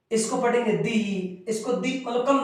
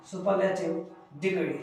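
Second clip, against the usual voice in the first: dictation pace; 2 semitones lower, 6 dB quieter, much slower than usual. Shown as a demonstration. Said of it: "dictating the rule slowly".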